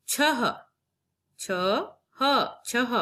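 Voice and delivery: छह broken into छ and ह, then rejoined; syllable split. Shown as a demonstration. Teacher breaks a word apart for pupils. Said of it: "शब्द के देखते हैं".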